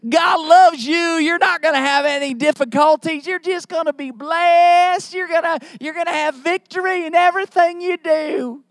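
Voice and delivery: preacher impression, accent. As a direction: proclaim it like a hammed-up preacher promising blessings. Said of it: "talk like that and have that accent".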